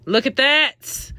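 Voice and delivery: slow, high "look at that"; marvelling. Shown as a demonstration. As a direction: draw it out in admiration. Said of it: "so y'all could see".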